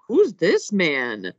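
drawn-out incredulous question; slow, puzzled disbelief, acted out; baffled reaction. Podcaster recalling confusion at a random detective, baffled.

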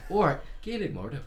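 a cheeky bad Irish accent; mock Irish accent. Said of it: "Or Irish".

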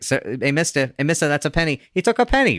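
put-on rising, excited kid voices; excited kids calling out. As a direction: call after him like a kid. Kids shouting at old man.

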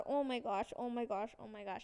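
hushed repeated exclamation, fading away; retold mild panic, dying down; inner panic. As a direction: panic silently under your breath. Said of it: "I'm having a panic attack".

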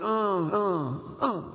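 mock drowsy groaning; sleepy grunts. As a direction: imitate a half-asleep wife grunting. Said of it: "she kinda went".

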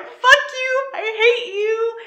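retold angry outburst at her boyfriend on the ride; mock furious yell. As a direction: hurl it at him half-joking. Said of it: "I'm just like".

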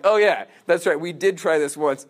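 emphatic mock recollection, loud at the start; retold line with punched opening words; imitated emphasis. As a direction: hit "Oh, yeah" hard as if pointedly reminding people. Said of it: "he's, like, emphasizing for people".

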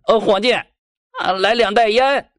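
slow drawn-out loud call for service; calling out loudly. Acted. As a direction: shout across the opium den. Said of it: "大声喊起来".

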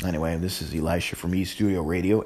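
put-on country accent, casual radio host. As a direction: repeat the intro in a mild country accent. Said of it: "in the country voice".

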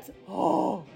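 high, laughing excitement; excited planning. Real, not acted. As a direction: gush over the idea. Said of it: "with my excitement".

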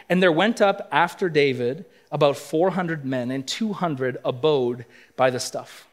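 steady, formal Bible reading; scripture reading. Acted. Pastor reads Nabal's reply aloud, measured and formal. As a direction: read the verses out to the congregation.

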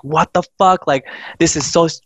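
high-pitched, baffled freak-out; retold disbelief. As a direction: act out a friend who can't believe it. Friend finds kitchen empty.

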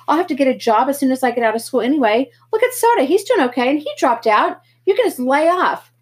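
loud, high defiant yelling; rising angry shout at his brother. Acted. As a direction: throw it back at him, fed up. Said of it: "I finally shouted".

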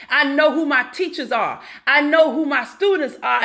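ordinary talk, nothing marked

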